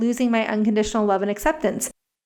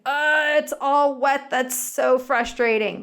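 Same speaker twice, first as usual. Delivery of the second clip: empathetic; 2 semitones higher, slower than usual. Retold or imitated. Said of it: "instead of saying".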